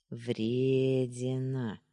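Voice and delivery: drawn out very slowly, singsong; singsong drawl. Acted. Boyfriend teasing girlfriend on the phone, slow singsong drawl. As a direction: stretch the word Вредина into a slow lilting tease. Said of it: "нараспев протянул он".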